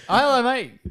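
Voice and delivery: high, loud greeting in a put-on English accent; chirpy imitation English-accent hello; imitated English-style accent. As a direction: hail someone with a mock English accent. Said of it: "Was he doing English accent?".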